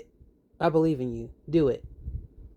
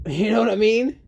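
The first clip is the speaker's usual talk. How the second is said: rueful laugh; 8 semitones higher, 8 dB louder than usual. Real, not acted. Laughs after hurt remark.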